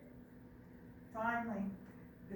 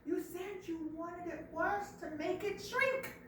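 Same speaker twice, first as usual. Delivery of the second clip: slow explanation; 7 semitones higher, slower than usual. Acted. Monkey explaining slowly.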